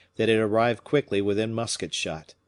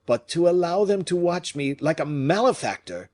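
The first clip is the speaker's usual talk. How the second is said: indignant; 9 semitones higher, 4 dB louder than usual. Acted. Fouquet indignant.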